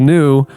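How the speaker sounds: "new" drawn out in air quotes; "new" said slowly with audible quote marks; air-quoted NEW. Real, not acted. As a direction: stretch "new" as if quoting it. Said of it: "I say that's in air quotes".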